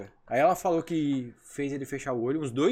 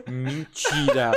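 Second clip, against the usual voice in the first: amused disbelief inside; 5 dB louder, much slower than usual. Retold or imitated. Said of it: "dentro de mim eu tava assim".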